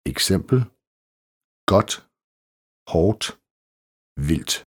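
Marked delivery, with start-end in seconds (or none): 1.7-4.5 godt, hårdt, vildt with the D unsounded before t; silent D. Shown as a demonstration. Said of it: "D T". (stumt D i godt, hårdt og vildt)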